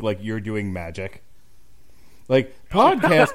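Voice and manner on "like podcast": mock amazement. Mocking people's amazement at podcasts.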